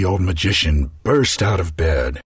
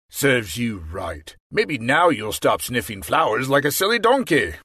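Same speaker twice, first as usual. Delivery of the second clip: grumbling magician; 5 semitones higher than usual. Acted. Magician grumbling at the king from bed. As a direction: grumble it half asleep. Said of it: "the magician grumbled".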